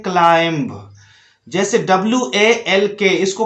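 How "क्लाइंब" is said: क्लाइंब with the final b sounded; wrong reading with B. Shown as a demonstration. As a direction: say क्लाइंब ending in an audible b. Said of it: "इसको पढ़ते हैं".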